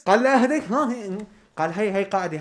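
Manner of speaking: high mocking voice of the guest; mocking imitation. Vlogger mimicking the guest, high mocking voice. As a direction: parrot her words back mockingly.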